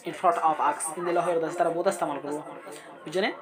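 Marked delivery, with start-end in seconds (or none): 0.1-0.8 very slow, in a different voice; slow model phrase. Shown as a demonstration. Teacher encouraging students slowly. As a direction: draw the words out. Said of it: "teacher demo".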